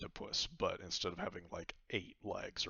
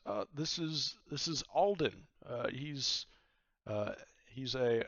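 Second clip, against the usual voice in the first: higher woman's voice, hesitant; Vaku introducing; 6 semitones higher, 3 dB louder than usual. Acted. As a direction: introduce your companion shyly. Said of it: "She says".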